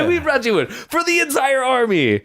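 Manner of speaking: very high, laughing put-on voice; hammed-up forest chasseur. Host joins the forest chasseur bit, high, laughing mock voice. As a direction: play a silly woodsman, high and giggly.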